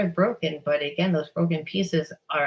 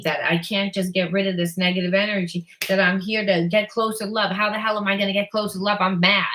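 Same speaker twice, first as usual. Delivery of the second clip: exasperated venting; 3 semitones higher than usual. Retold or imitated. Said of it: "would be on the healer's path and say".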